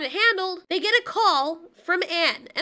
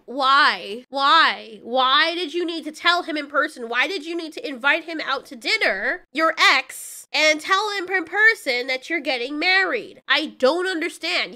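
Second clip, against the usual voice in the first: louder, incredulous outrage; exasperated rant; 4 dB louder than usual. Real, not acted. Vlogger ranting at the ex who invites him to dinner, louder and exasperated. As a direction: demand answers from her, fed up.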